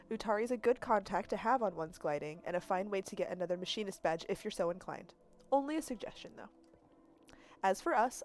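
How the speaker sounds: a hint of a parting mother's message; lightly voiced Jadi. Jadi's message to Sable, lightly voiced farewell. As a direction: read it gently, like a farewell recording.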